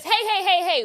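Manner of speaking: high, repeated calling out; mock breaking up a scuffle; imitated intervention. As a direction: cut in to get their attention. Retold breaking up of a bar fight.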